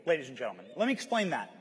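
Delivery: rousing speech. Shown as a demonstration. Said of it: "That's the speech I wish I could have given".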